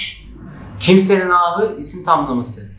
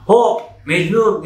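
a drawn-out call of Hop, louder and slower; mock shout; 4 semitones higher, 3 dB louder, slower than usual. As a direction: call Mecnun from afar, mildly. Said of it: "diye bağırıyordu". (hafif taklit bir bağırış)

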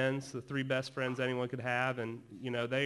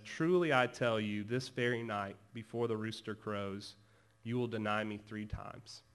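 gentle, kind, confident. Acted. Jesus foretelling Peter's denial, gently confident. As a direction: state it kindly and surely. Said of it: "so gently, so kindly, so confidently says".

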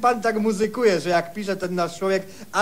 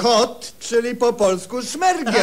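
laughing; 3 semitones higher, slower than usual. Acted. Officer mocks the cat meaning.

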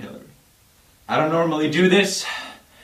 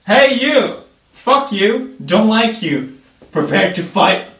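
mock challenge; 5 semitones higher, 4 dB louder than usual. Challenging someone to fight.

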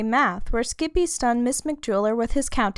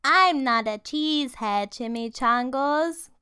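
chuckling; 3 semitones higher than usual. Acted. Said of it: "chuckled the gatito".

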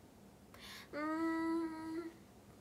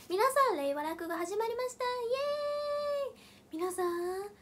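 stage opening call; 8 semitones higher, slower than usual. Shown as a demonstration. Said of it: "再現すると".

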